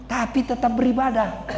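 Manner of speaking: low, deep divine voice; God speaking. Acted. God boasting of Ayub to Satan, low and calm. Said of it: "Kata Allah".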